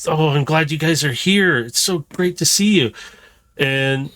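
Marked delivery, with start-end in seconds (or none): 0.1-2.9 put-on higher, bright-eyed little robot girl greeting; lightly raised glad welcome; Ash greeting. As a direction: greet old friends with eager delight. GM voices Ash greeting the players.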